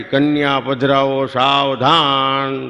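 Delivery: slow drawn-out priestly call; priest's call. Retold or imitated. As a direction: stretch it like a wedding priest calling out. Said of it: "મહારાજે રાડ પાડી". (ધીમો લંબાવેલો પૂજારીનો પોકાર)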